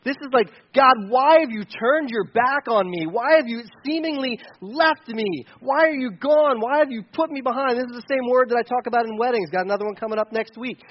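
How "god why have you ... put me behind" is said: pleading lament. Acted. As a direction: lament like someone abandoned. Acting out forsaken prayer to God.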